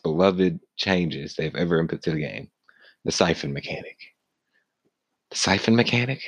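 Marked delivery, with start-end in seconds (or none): 3.0-4.0 low, quiet, dropped delivery; odd low voice. Shown as a demonstration. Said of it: "I don't know why I'm talking like this". 5.3-6.2 higher puzzled rising question; mock questioning. Shown as a demonstration. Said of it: "I don't know why I'm talking like this".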